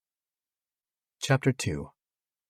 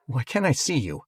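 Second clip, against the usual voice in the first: quivering voice; 5 semitones higher, 4 dB louder than usual. A narrator's reading. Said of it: "my voice quivering".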